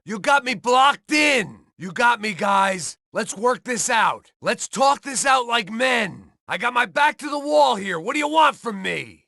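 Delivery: cornered shout. Acted. Cornered in a gunfight.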